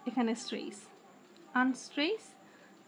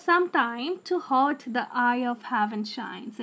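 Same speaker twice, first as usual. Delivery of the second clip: very slow, each beat of the line pulled apart; slow scansion reading; much slower than usual. Shown as a demonstration. Teacher reading the sonnet line to students, very slow. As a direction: sound out the metre word by word. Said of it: "এখানে আমরা sometime".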